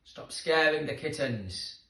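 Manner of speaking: loud cross telling off; angry scolding. Acted. Jenny scolds Kevin for scaring kittens, loud and cross. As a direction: scold him sharply. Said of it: "she yelled".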